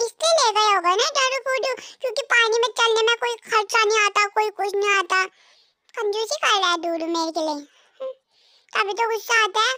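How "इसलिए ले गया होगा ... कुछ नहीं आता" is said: higher wife's voice, complaining about a stingy husband; annoyed wife voice. Acted. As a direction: grumble like a fed-up young wife. पत्नी की आवाज़ में कंजूस पति की शिकायत. (पति की कंजूसी पर चिढ़ी पत्नी, ऊँची आवाज़ में शिकायत)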